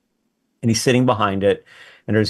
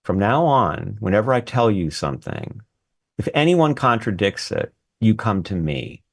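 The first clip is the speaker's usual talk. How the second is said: gravely imitating a stern mentor; measured orders with pauses between phrases; very serious. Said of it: "he says to me very seriously".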